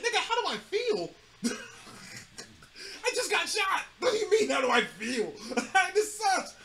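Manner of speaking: mock outraged answer through laughter; laughing retort. Retelling getting shot, answers doctor laughing. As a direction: laugh while snapping back at the doctor.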